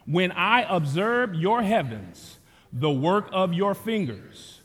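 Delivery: slow, solemn declared psalm reading; scripture reading. Acted. Pastor leading the standing congregation in reading Psalm 8, slow solemn declaration. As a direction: proclaim the psalm slowly, together.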